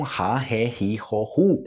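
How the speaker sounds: "ra, ré, ri, ró, ru" said with H sounds; breathy Brazilian R on "ra, ré, ri, ró, ru"; double R drill. Shown as a demonstration. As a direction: recite "ra, ré, ri, ró, ru" as ha, he, hi, ho, hu. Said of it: "pronúncia do duplo R em português".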